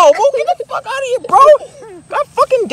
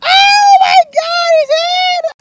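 higher, louder frantic yelling; panicked shout; 9 semitones higher, 5 dB louder, slower than usual. Acted. Yelling at the kid about his head, panicked. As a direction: yell in alarm at the kid.

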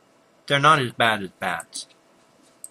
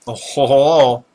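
villain laugh; 3 semitones higher, 10 dB louder, slower than usual. Acted. Gloating at monsters in game.

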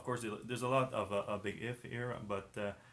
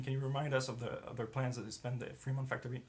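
hoarse voice. Real, not acted. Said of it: "Sorry, I'm losing my voice right now".

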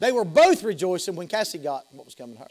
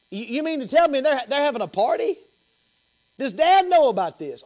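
incredulous; 7 semitones higher, 4 dB louder than usual. Acted. Acted brother hears of party.

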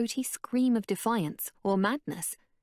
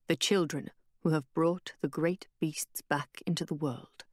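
Tariq's voice; 3 semitones lower than usual. Acted.

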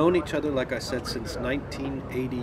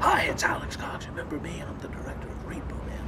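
Alex Cox; 5 semitones higher than usual. Retold or imitated. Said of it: "and he goes".

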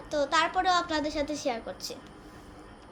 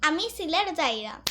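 Sylheti dialect. Shown as a demonstration. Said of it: "এটাকে আমরা সিলেটি ভাষায় বলে".

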